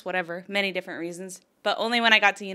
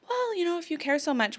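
friend's challenge; 9 semitones higher, 6 dB quieter than usual. Retold or imitated. Voicing her friend's challenge.

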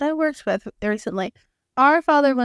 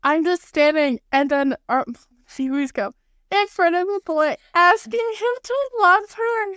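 hammed-up rom-com plea; 7 semitones higher than usual. Quoting a rom-com classic nobody remembers, hammed-up plea. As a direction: climb higher into a theatrical romantic plea. Recites romantic film line.

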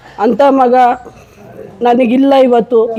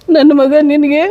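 a grieving mother starting to cry. Real, not acted. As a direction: voice breaking into tears. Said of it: "ದಯವಿಟ್ಟು ಅಳ್ಬೇಡಿ please". (ಅಳುತ್ತಾ)

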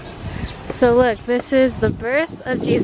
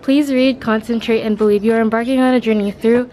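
steady sign-reading voice; reading aloud; 2 semitones lower, faster than usual. Real, not acted. Vlogger reading out the journey notice for viewers, steady recital. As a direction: read the notice out evenly, phrase by phrase.

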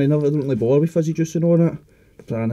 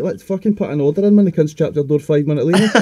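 laughing; 3 semitones higher, 3 dB louder than usual. Real, not acted. Laughing over fast takeaway.

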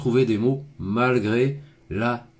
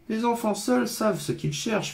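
Petit Prince voice; 11 semitones higher than usual. Acted. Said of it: "fit le Petit Prince".

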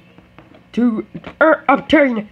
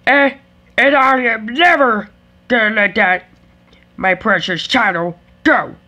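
wrestler promo voice. Pretend. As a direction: brag like a heel wrestler. Wrestler heel promo, low voice.

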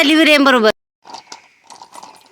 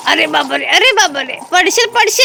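worried warning; 3 semitones higher than usual. Real, not acted. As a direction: call out that he'll fall. Warning toddler on tractor.

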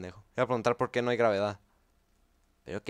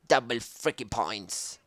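announcer voice; 3 dB quieter, much slower than usual. Retold or imitated. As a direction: boom it out like the game voice. Mimics game announcer. (voz de anunciador de juego)

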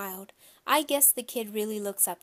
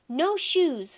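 put-on loud, higher toddler no; shouted refusal; 7 semitones higher, 8 dB louder than usual. A narrator's reading. Toddler yelling at his mother in the shoe store, loud and high. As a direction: shout it like a stubborn little kid.

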